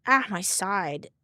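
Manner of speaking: drawn-out pained groan; slow aching cry; hit hard crying out. Real, not acted. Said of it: "My side is being stupid".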